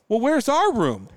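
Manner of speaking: very high, loud and slow; mock her whining question; the lady demanding to know her room; imitating the woman. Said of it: "And she goes".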